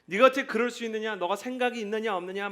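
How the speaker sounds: rapid-fire indignant questions, lightly acted; hot verbal abuse. Shown as a demonstration. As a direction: demonstrate a heated, accusing rant. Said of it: "뜨거운 폭언은 진짜 이렇게 막 화를 내는".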